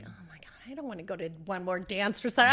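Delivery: fast, breathy whisper of a bored aunt; a quick mock-weary whisper; mock whispered grumble. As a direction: whisper the complaint quickly, half joking. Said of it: "I was like".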